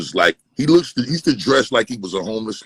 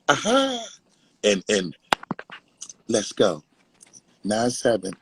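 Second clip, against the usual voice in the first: mock a rapper's ad libs; 3 semitones higher, 4 dB quieter than usual. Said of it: "Try to mock a rapper and shit".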